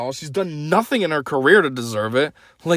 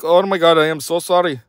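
rough attempt at an Indian accent; imitated Indian accent. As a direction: put on a mock Indian accent. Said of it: "That's an Indian accent".

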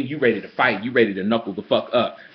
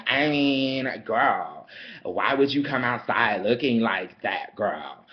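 lower, slower, snooty mock of the white girl; 3 semitones lower, 4 dB quieter, slower than usual. Mocking the white girl who insulted his outfit, lower and snide. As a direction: drag her tone down, dismissive and slow. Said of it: "the white girl gonna chime in".

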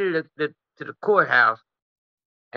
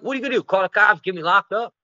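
put-on drunk taunt; 5 semitones higher, faster than usual. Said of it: "I'm like".

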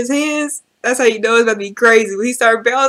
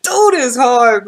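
hyped praise; 3 semitones higher, 6 dB louder, slower than usual. Real, not acted. Hype after freestyle.

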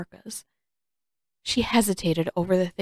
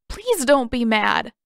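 pleading; 4 semitones higher, 4 dB louder than usual. Acted. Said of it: "Aang's voice wobbled".

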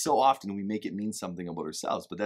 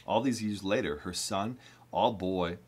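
reading from the book; 3 semitones lower than usual. Acted. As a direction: read the passage steadily, a notch down. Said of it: "I wanna read just this little part from the book".

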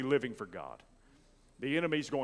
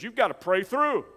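"You've gotta pray through" run together in a raised voice; old-timers' exhortation; 8 semitones higher, 8 dB louder than usual. Retold or imitated. Preacher quoting the old timers to the church, quick raised exhortation. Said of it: "used to say it like this".

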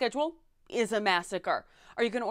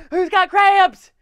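mock scream; 6 semitones higher, 14 dB louder, slower than usual. Screaming in Red Lobster.

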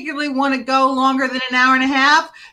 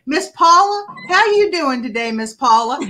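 imitating the caller; 2 semitones higher than usual. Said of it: "And he would say".

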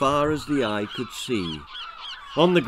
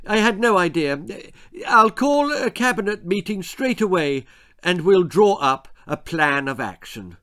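higher, stammering politician voice; flustered Prime Minister; 5 semitones higher, 3 dB louder than usual. Acted. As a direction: caught off guard, fumble the title. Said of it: "said the Prime Minister".

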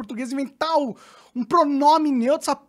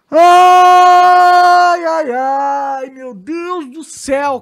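despairing groan; 3 semitones higher, 9 dB louder, much slower than usual. Real, not acted. Despair over the news.

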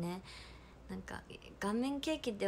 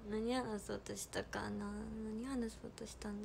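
whisper; 6 dB quieter than usual. Real, not acted. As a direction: murmur it to herself. Thinking aloud.

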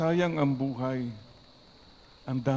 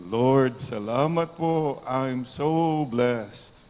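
with a smile; 3 semitones higher, much slower than usual. Shown as a demonstration. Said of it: "Say it with a smile".

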